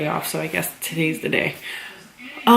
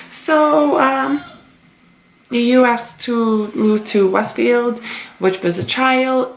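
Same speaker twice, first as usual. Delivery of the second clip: high, drawn-out reluctant scheduler; slow, careful lead-up in a raised pitch; hesitant bad-news delivery; 5 semitones higher, much slower than usual. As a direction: imitate someone stalling before bad news. Scheduler breaking bad news, retold.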